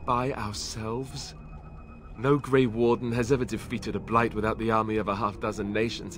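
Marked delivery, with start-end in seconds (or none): 0.0-1.3 daunted. Acted. Daunted by facing Archdemon alone.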